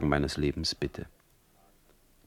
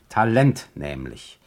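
low, slow, pointed; sarcastic slow punchline; dry jab; 5 semitones lower, 3 dB louder than usual. Acted. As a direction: land the insult deadpan. Punchline insult.

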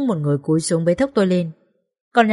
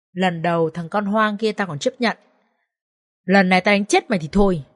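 hissed threat. Acted. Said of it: "Mẹ chồng tôi rít lên".

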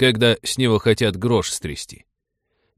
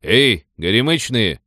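calling out; 3 dB louder than usual. Acted. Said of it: "крикнул один".

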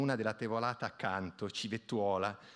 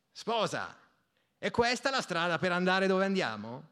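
laughing tease; 7 semitones higher, 5 dB louder than usual. A narrator's reading. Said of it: "chiese il Pigna ridendo".

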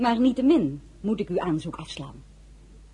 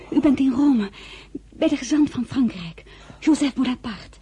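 calling out; 7 semitones higher, 5 dB louder than usual. Acted. Calling to an unconscious general.

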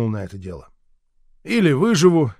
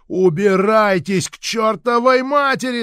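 loud, higher, slow furious shout; angry yell; 8 semitones higher, 6 dB louder than usual. A narrator's reading. Boy yelling at mother and grandmother to get out, loud. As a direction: bellow them out of the room. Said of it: "заорал я".

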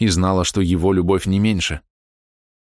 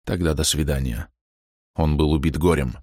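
softer, lower, resigned; heartbroken farewell; 3 semitones lower, 3 dB quieter than usual. A narrator's reading. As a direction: say goodbye crushed. (убито, тише и ниже)

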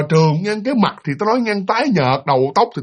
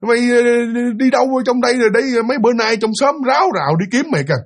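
calling out; 5 semitones higher than usual. Retold or imitated. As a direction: call across to a neighbour you found. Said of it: "bà kêu".

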